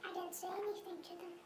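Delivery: altered anonymous voice; disguised deep voice. Acted. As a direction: voice disguised to hide identity. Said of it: "his voice has been altered".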